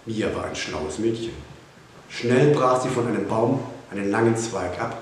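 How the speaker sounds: ordinary delivery, nothing marked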